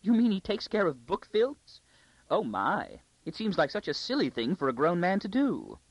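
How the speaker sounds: high, tittering lady's voice. A narrator's reading. Court lady mocking a librarian, tittering. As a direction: giggle at the silly librarian.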